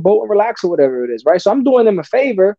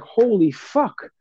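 stunned disbelief; 4 dB quieter, much slower than usual. Retold or imitated. Handler stunned by lying tigers.

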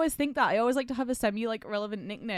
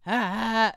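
imitated wheezy laugh; 3 semitones higher, 4 dB louder than usual. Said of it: "it's not even a laugh, ... wheeze".

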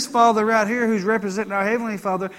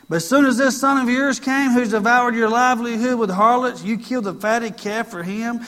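resentful son; 4 semitones higher, 5 dB louder than usual. Acted. Resentful son read loudly.

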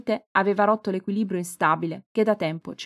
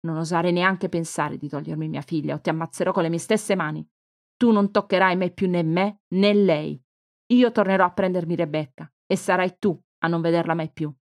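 cold threat. Acted. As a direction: warn her mother she means it. Cristina threatens her mother. (minaccia lenta e dura, più forte)

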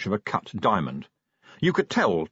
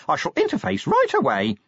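high, eager little messenger voice; squeaky, gung-ho official patter; enthusiastic imp; 8 semitones higher than usual. A narrator's reading. Imp saluting Vimes with its service promise, enthusiastic. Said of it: "from despair to enthusiasm".

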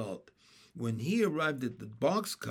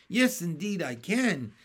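eager cry; 3 semitones higher, 4 dB louder than usual. Acted. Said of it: "cried Henry".

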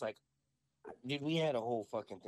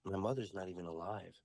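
lightly imitated child witch, lower and deadpan; daughter in character; 4 semitones lower, 3 dB quieter than usual. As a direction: drop the voice for a grave revelation. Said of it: "she's talking just like this".

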